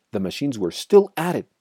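plain reading voice

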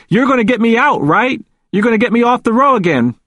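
high, urgent pleading; rising panic. A narrator's reading. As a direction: beg a friend for rescue, pitched right up. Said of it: "He was starting to panic".

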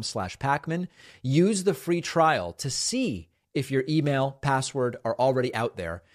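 ad read. Acted. Host reading a sponsor ad to listeners, polished ad voice. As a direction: sell the app like a practiced host.

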